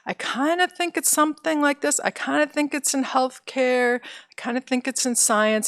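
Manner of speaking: a hint of a student musing aloud, unsure; mimicking a student who is only half sure of their plans. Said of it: "it's very common to say".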